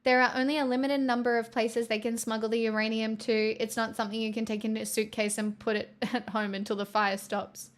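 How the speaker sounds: even, lightly formal news update; news read. Acted. Streamer updates chat on the war, news read. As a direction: read out the latest update evenly.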